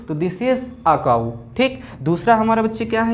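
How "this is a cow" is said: "a" as an open "ah", the phrase said slowly; article as "aa". Shown as a demonstration. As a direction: slowly say "a" like "आ" before "cow". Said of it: "आ आया, ठीक". ("a" को "आ" बोलें, धीरे से "आ cow")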